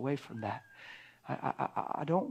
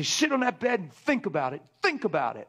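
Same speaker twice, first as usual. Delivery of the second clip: angry parent barking an order, louder; retold yell at kids; 4 semitones higher, 5 dB louder than usual. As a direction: order the kid to his room, sharply. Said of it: "I used to yell at my kids".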